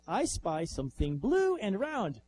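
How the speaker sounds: robot voice. Retold or imitated. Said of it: "So the robot goes".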